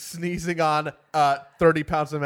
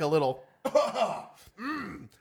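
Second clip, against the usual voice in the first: throat clearing cough; 5 semitones higher, much slower than usual. Real, not acted. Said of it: "get my speaking voice back up".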